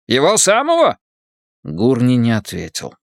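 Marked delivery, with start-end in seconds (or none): 0.1-1.0 higher, surprised Irish voice. Acted. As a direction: gasp it out with an Irish accent. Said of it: "Ирландский акцент работал на всю катушку".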